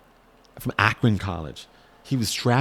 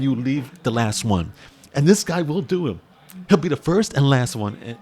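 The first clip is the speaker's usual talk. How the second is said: fired up; 4 semitones higher, 4 dB louder than usual. Real, not acted. Fired up about hard work.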